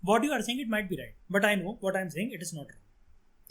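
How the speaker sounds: polite calm reply. Shown as a demonstration. Teacher telling students to stay calm before the interviewer, slow and polite. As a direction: say it slowly, keeping your cool. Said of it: "तो ये बोल देना".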